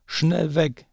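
high, hooting owl cry, then a quick getaway; squawking owl flees in alarm; panicked owl hoot. Acted. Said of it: "rief die Eule".

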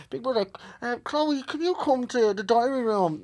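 slow announcer voice; Big Brother announcer. Retold or imitated. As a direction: call her like the show's voice. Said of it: "I heard Big Brother".

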